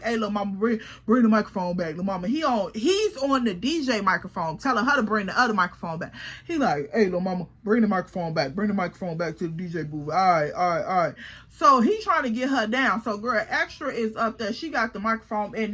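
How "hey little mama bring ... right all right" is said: a lightly voiced DJ, a bit lower, coaxing; DJ calling her down. DJ in his booth calls the girl to hand back the mic, lightly voiced and coaxing. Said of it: "And then he like".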